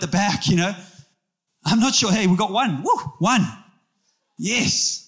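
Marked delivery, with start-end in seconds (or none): 1.6-5.0 mock cheer. Pretend sign-ups from congregation.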